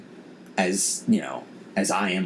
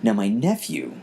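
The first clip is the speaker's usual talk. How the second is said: normal talking voice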